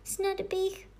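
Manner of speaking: high little princess voice. A narrator's reading. Princess takes pity on the magician, high-voiced. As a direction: pipe up in a high voice. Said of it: "řekla honem".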